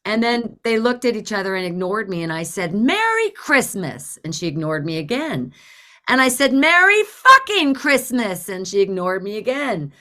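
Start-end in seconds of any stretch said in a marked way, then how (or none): 2.8-4.2 high, slow, pointed holiday greeting. Retold or imitated. Angry driver to the woman ignoring her, pointedly sweet. 6.5-8.5 loud, high, drawn-out sarcastic greeting; angry greeting. Retold or imitated. Ignored driver escalating at the woman, loud and angry.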